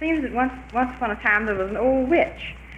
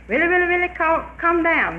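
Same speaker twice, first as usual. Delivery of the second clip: witch calling up the tree; 7 semitones higher, 4 dB louder than usual. Retold or imitated. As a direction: drag it out to coax him down. Witch coaxing man down tree.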